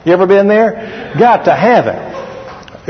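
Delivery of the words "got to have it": slow, drawn-out Got to have it; mock longing, dragged out; slow craving. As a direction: stretch every word like you crave it. Mocking his own craving.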